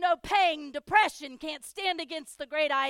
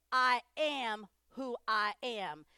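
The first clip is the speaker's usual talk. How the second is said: slow, measured divine declaration; a touch of grave God; solemn God voice; 2 semitones lower, slower than usual. Acted. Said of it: "God said to Moses".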